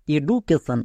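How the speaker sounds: এডুকেশন with a hard d, the common mistake; wrong pronunciation. Shown as a demonstration. Teacher showing students the common mistake, wrong pronunciation. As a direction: show the error এডুকেশন with d. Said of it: "নব্বই জন এর উচ্চারণ করে থাকে".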